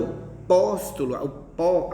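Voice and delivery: "póstolo" with a strong first syllable, then "pó" alone; stress on PÓ. Shown as a demonstration. Teacher isolating the intense syllable, stress on "pó". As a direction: punch "pó" in "póstolo". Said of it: "a gente fala de forma mais intensa".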